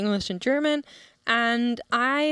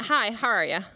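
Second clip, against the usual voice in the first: quick, run-together "Hi, how are ya?"; imitated offhand Cork greeting; casual shopkeeper greeting. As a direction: toss off "how are ya" as one loose phrase. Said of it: "he went".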